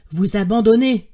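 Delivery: loud, incredulous question; shocked protest. A narrator's reading. Nephew refusing to abandon his uncle, shocked and loud. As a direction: throw the question back, aghast.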